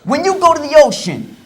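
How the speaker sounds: put-on New Jersey accent. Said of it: "You guys sound like you're from New Jersey".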